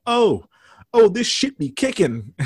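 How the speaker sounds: hammed-up excited outburst; mock drugged yell. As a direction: imitate a square guy pretending to be high. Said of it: "acting like he had just done drugs and yelling out".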